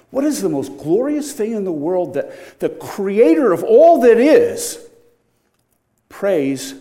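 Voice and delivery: preacher marvelling, building to a peak; rising awe. Real, not acted. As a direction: climb to a loud, high "all that is".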